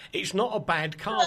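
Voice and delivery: lightly imitated motoring presenter; a hint of car-show pronouncement; Clarkson. Presenter giving his verdict on the car, lightly Clarkson-like. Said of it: "I'm sounding like Clarkson now".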